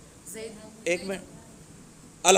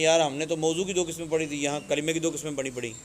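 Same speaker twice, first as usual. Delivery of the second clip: confused student; 2 semitones lower, 5 dB quieter, faster than usual. Pretend. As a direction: rattle it off like a puzzled pupil, dropping away. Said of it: "تو پھر آپ وہاں پریشان ہو جائیں".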